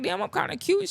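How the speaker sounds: high, cooing self-admiring voice; cute baby voice. Retold or imitated. Young man admiring his own baby picture, high cooing voice. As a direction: coo like a proud cute baby. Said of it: "I'm like".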